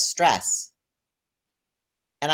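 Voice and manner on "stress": one word in a lightly imitated Korean accent, falling; Korean acupuncturist. Imitating the Korean acupuncturist's terse verdict to the patient, light Korean accent. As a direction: mimic the Korean acupuncturist's terse broken English. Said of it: "he says".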